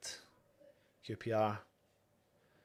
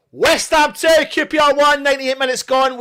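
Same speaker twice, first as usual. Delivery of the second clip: excited; 8 semitones higher, 6 dB louder than usual. Real, not acted. Scoreline in excitement.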